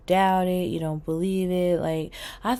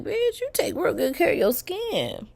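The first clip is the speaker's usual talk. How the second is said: talking to herself; 10 semitones higher than usual. Retold or imitated. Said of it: "looking at my skin like".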